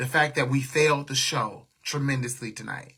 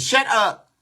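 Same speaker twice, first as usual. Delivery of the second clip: annoyed snap; 8 semitones higher, 5 dB louder than usual. Real, not acted. Snapping at chat comments.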